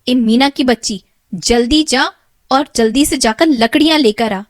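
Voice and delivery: loud angry stepmother. Acted. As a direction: drive the girl out in a rage. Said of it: "बड़े गुस्से में मीना से कहती है".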